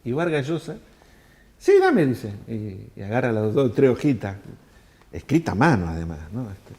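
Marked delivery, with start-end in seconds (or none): 1.6-2.1 high, loud eager yes; snatch the pages eagerly, voice jumping up; eager reply. Retold or imitated. Vargas Llosa asking for the pages, high and loud eager.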